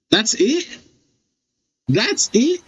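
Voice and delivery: can't believe it's over; disbelieving. Real, not acted. Player baffled the trial just ended, disbelieving.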